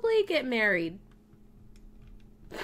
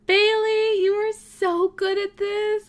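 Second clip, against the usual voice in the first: high, loud gushing praise; slow, drawn-out squeal of praise; excited cheering; 10 semitones higher, 8 dB louder, slower than usual. Real, not acted. Player praises Bailey on the obstacle course, excited.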